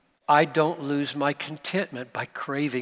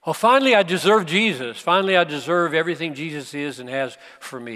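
quick, louder burst of pretend self-congratulation; mock triumph; 5 dB louder, faster than usual. Voicing someone proud of deserving Jesus.

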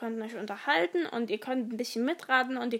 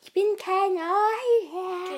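whisper; 7 semitones higher, slower than usual. Acted. Quoting Harry Potter line, whispered.

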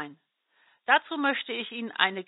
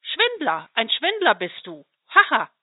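mocking laughter; 6 dB louder than usual. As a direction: laugh at the cheat, mocking him. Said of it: "Da lachte der kleine Falter noch mehr".

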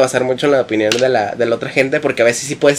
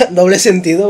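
voice giving out; 3 semitones higher than usual. Real, not acted. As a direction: voice cracks high and breaks. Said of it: "se me fue la voz".

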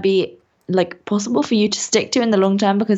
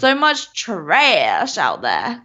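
slow mock American drawl; American accent; much slower than usual. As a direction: put on an American accent, slowly. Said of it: "I've got such a good American accent".

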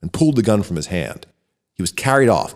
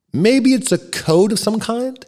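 much higher, slower puzzled query; questioning professor; 13 semitones higher than usual. Acted. The head of philosophy puzzles aloud to the room, high and slow. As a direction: float the idea up high and slow.

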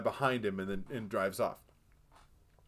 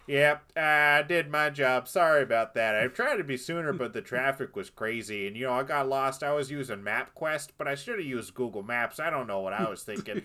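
casual excuses. Retold or imitated. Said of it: "he's just casually standing off to the side".

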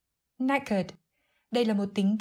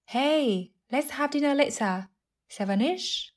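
lightly acted higher-pitched caller; friend inviting; 5 semitones higher, slower than usual. Acted phone dialogue, inviting friend. (giọng người bạn rủ rê, hơi cao)

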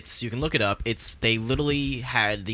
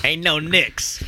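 cocky fan voice; 4 semitones higher, 4 dB louder, much slower than usual. Retold or imitated. Echoing the cocky fan line.

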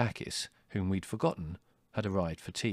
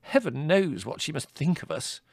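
higher motherly voice; fretting mother; 6 semitones higher than usual. A narrator's reading. Mother worrying what the visitor thinks, fretful. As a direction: fret aloud, pitched up.

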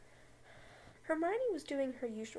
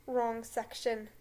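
slow, lightly lowered correction; Snape voice; 2 semitones lower, 3 dB louder, slower than usual. Acted. Snape correcting Hermione at the files, slow cool. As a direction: correct her slowly, coolly. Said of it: "he said".

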